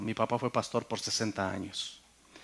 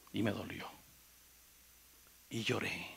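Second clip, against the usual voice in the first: pained; 5 semitones lower, 11 dB quieter than usual. Real, not acted. Confessing he cried.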